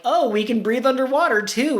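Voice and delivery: high Sango voice. Retold or imitated. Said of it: "Songo makes the comment".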